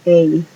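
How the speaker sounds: the letter A said as English "ey"; A glides into an "ee", like ey; long A. Shown as a demonstration. Teacher shows learners the other English A sound, A as "ey". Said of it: "luego suena como".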